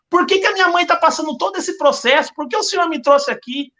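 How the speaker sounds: retold prayer, questioning and imploring; pleading prayer. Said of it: "eu falava essas palavras pro Senhor".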